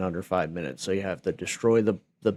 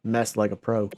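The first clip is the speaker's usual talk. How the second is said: put-on Texas accent. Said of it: "I did, like, a Texas accent".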